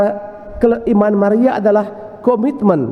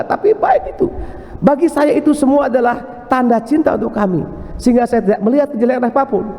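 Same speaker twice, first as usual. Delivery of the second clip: gentle husband; 3 semitones higher than usual. Retold or imitated. Husband gently defends his wife.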